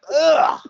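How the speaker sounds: high, loud groan of revulsion; disgusted ugh. Retold or imitated. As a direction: act out a revolted "ugh". Retold disgust at sweaty hug.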